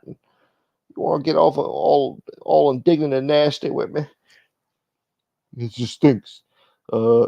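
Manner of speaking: mock indignant sneer; voiced rival. Rival host rejecting the team-up, mock snooty. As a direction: brush him off with disdain.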